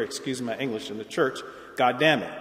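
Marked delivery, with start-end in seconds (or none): 1.8-2.3 GOD DAMN IT run together as one quick everyday curse; popular curse intonation. Shown as a demonstration. Lecturer showing churchgoers the popular curse, God damn it run together as one phrase. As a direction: say God damn it with no break after God, like a common swear. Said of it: "very different from our popular use of the phrase".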